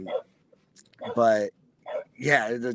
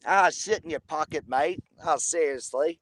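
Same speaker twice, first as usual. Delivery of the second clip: put-on Australian accent, a bit higher; Aussie accent; 6 semitones higher than usual. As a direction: give the Aussie line another go, a touch higher. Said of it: "Do that again".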